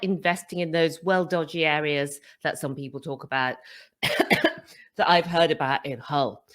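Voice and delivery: catching breath between coughs; winded, pushing words out. Real, not acted. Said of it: "while I just catch my breath".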